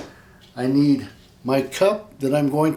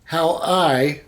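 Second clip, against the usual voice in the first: stiff, nervous robot voice. Real, not acted. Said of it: "why do I sound like a robot?".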